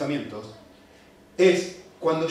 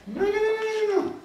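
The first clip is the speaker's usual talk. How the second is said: rising no. Real, not acted. Rejecting excuse.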